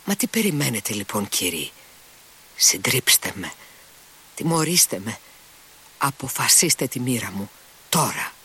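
plain reading voice

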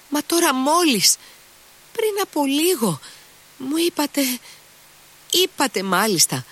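very high, disbelieving outcry; stunned Mitya. Acted. Mitya thunderstruck at the lady, very high disbelief. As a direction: cry out that she just promised it.

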